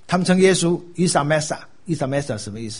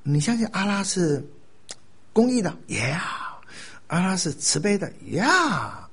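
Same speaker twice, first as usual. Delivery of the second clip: soft lilting questions, pitched up; slow, gentle approach; 5 semitones higher, 4 dB quieter than usual. Acted. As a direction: ease into it with slow, non-confrontational questions. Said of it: "你就慢慢跟他讲说".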